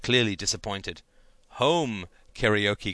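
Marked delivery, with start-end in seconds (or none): 1.6-2.9 excited cry. Acted. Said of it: "cried Janine".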